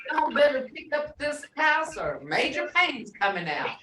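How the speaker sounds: mild mock drill-sergeant warning to the kids; lightly put-on commanding parent; stern household order. Speaker ordering the kids to tidy the house, mock stern. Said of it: "I'll go in there and I say".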